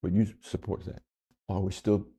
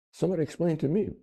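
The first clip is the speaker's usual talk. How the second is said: exasperated plea; 8 semitones higher, faster than usual. Real, not acted.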